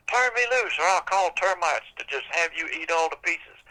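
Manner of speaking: high shriek, then a threat; threatening witch. Acted. Witch hanging by her hair threatens the tree with termites. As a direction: screech the demand and the threat. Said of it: "He said".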